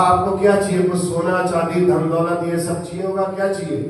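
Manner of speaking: eager offer. Acted. Merchant eagerly offers wealth to sage.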